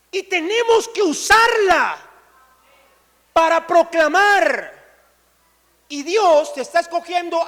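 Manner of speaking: loud, rising sermon climax; full-force preaching. Acted. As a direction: preach it to the congregation with full power. (predicación a todo pulmón)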